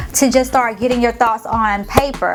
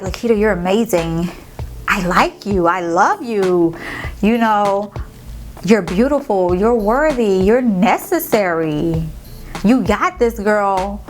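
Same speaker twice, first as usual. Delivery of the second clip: loving self-talk. Retold or imitated. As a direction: soothe yourself like a friend. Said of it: "I say things like".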